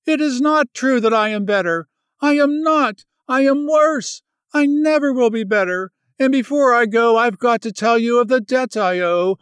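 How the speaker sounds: high, loud, distraught confession; feverish anguish. Acted. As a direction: spill it out in fevered despair. Ruth's feverish outburst.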